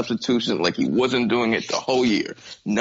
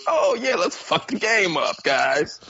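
mocking; 4 semitones higher than usual. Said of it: "And then it was".

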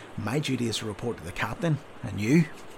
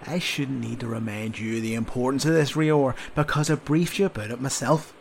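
a louder sergeant scolding a recruit; berating sergeant; 3 semitones higher, 5 dB louder than usual. Acted. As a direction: tear into the sleepy soldier. Sergeant berating sleepy soldier.

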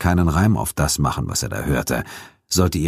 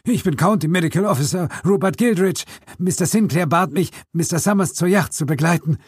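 higher, strained voice of a frozen man; weak cold call; 13 semitones higher than usual. Acted. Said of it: "rief er von der Kälte geschwächt". (schwach und unterkühlt gerufen)

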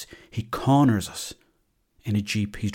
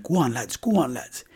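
cheering; 2 semitones higher than usual. Retold or imitated. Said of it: "stop shouting".

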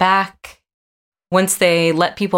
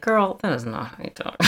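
mock scolding; 6 dB quieter than usual. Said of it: a singer's "effect where you're like".

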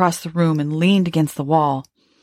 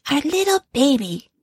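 high, tender quoted wife; the woman voicing the dead wife, high and tender; 6 semitones higher than usual. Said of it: "she says".

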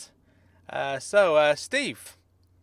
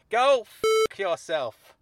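angry yell; 4 semitones higher, slower than usual. Acted. Angry insult.

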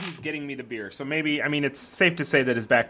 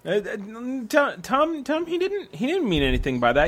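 anxious placating; 5 semitones higher than usual. Acted. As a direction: start high, then come down while soothing a friend. Placating a friend in a rage.

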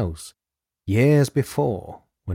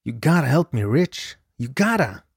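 pleading; 3 semitones higher than usual. Acted. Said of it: "He pleaded with Kuklinski".

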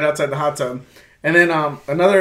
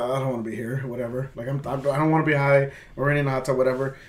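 low, softer, retold grumbling; reluctant inner monologue; 4 semitones lower, 6 dB quieter than usual. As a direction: grumble it under your breath, as if retelling. Retelling his reluctant muttered thoughts.

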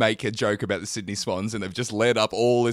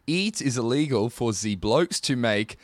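careful reading in a put-on French accent; mock French accent; 2 semitones lower than usual. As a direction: read it as a hesitant comic Frenchman. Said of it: "they've spelt it out phonetically".

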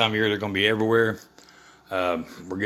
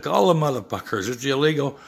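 retold angry comeback; 5 semitones higher than usual. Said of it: "I said".

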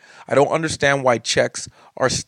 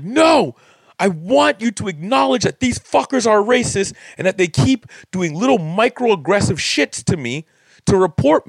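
higher, louder furious shout; furious retold demand; 6 semitones higher, 3 dB louder than usual. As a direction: yell it back at the board, outraged. Furious reply to condo board.

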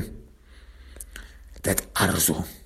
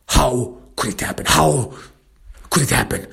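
mild yell of disbelief; 3 semitones higher than usual. Acted. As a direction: demand it, voice somewhat raised. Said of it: "I yell at him".

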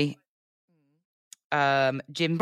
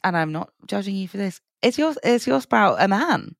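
high, disbelieving question; incredulous; 4 semitones higher than usual. Real, not acted. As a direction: ask it in teasing disbelief. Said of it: "pull you up on one thing".

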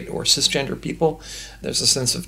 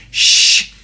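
unvoiced conspiratorial whisper; 4 semitones higher, 5 dB louder than usual. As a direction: lean in and whisper the secret. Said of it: "my grandmother leaned in and said".

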